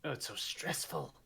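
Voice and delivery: airy, put-upon noble complaint; lightly voiced snooty noble; mock noble sigh. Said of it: "Acting like these nobles".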